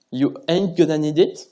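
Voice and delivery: slow, self-mocking French-accented English. Speaker mocking own English accent for conference audience, slow English accent. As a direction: say it in your best bad English accent. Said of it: "avec mon accent anglais fabuleux".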